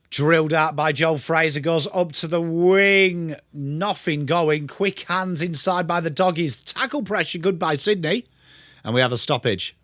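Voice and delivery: a hint of a TV footy caller; light mock commentary. Streamer calls the play for viewers, lightly voiced commentary. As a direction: narrate the passage of play like a broadcaster.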